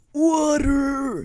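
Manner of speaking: loud, high, drawn-out mock cry for water; hammed-up parched wail, falling at the end; SpongeBob. Podcaster acts out cartoon scene, desperate mock cry. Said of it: "that scene from SpongeBob".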